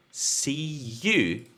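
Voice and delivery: "See you" with a gliding "ya" linking, not a J; "See you" with a y sound. Shown as a demonstration. Teacher modelling "See you" for students.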